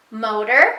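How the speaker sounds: "Motor," set apart as the first half of a word; word part, then pause. Shown as a demonstration. Teacher demonstrating say it fast, "Motor," separated before a pause. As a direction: say "Motor," alone, then stop. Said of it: "and then it tells you to pause".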